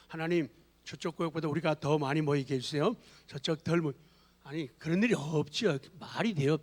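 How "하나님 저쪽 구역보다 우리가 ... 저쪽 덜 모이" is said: mock petty prayer. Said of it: "세상 거 배워가지고".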